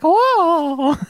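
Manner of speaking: high startled gasp of a word; startled high whoa. Pretend. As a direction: jump in surprise. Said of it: "She's like".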